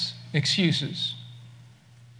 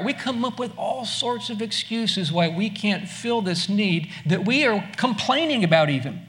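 ordinary delivery

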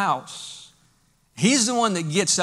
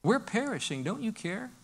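quiet desperate plea; 2 semitones higher, 7 dB quieter than usual. Acted. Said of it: "Job got that way".

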